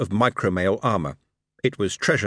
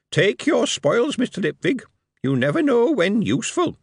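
goblin pressing; 12 semitones higher than usual. A narrator's reading. Goblin urging Moist to keep spoils, high goblin voice.

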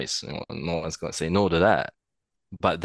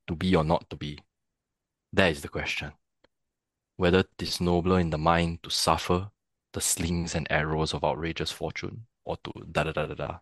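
Singaporean accent; 2 semitones lower, 3 dB quieter than usual. Shown as a demonstration. Actor demonstrating how accent shifts a Hamlet soliloquy, Singaporean accent. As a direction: recite it with Singaporean vowels, no R's. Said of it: "if I do it in a Singaporean accent".

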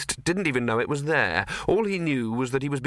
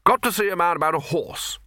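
hurried wizard; 6 semitones higher than usual. Acted. Arch-Chancellor leaving.

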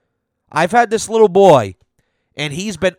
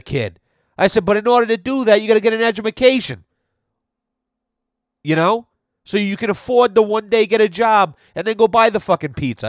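higher, mock-preachy lecture to a kid; lecturing the kid; 5 semitones higher, faster than usual. Telling the kid he needs an education, mock preachy. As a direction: lay it on like a fed-up adult. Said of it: "I go".

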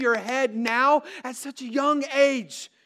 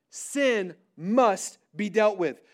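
"Sin must be dealt with" slow but more connected; firm restatement; 3 semitones lower, slower than usual. Real, not acted. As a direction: lean on "Sin" and "must", then run "be dealt with" together. Key point repeated more connectedly.

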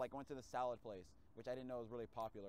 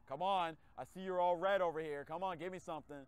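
pleading; 4 semitones higher, 9 dB louder than usual. Retold or imitated. Begging app for orders.

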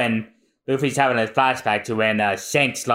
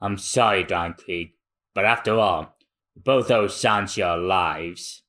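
grim pirate vow; 3 semitones lower than usual. Acted. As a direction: apologize but mean every word. Voicing Gin.

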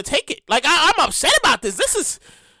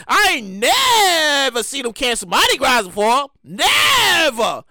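disbelieving outcry; slower than usual. Real, not acted. Disbelief Mardi Gras canceled.

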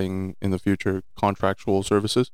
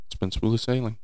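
lightly sarcastic, slightly understated; 3 semitones higher than usual. Real, not acted. Guest tells host how business has gone, lightly sarcastic. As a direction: say it with a touch of irony. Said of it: "I say that sarcastically".

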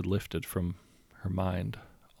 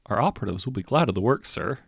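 grinning salesman. Acted. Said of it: "he grinned".

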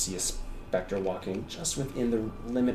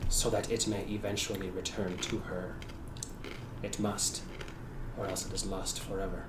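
solemn Shadar Kai. Acted.

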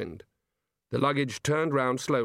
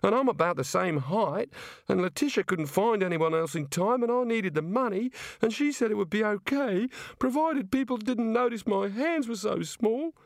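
put-on much higher, tearful-sounding young woman; upset Neilette; 9 semitones higher than usual. Neilette, crying on the luggage, complains to Rincewind, high and upset. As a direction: pour out her woes, near tears.

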